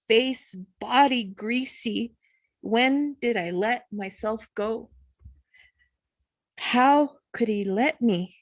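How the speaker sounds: measured, bitter-edged poetry recital; poem reading. Acted. Reading her poem Soap to listeners, earnest recital. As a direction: let each short line land on its own.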